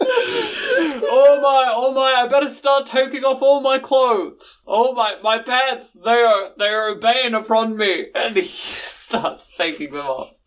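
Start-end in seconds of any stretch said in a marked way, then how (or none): 0.1-8.1 barbarian. Acted. Boris panics over pants.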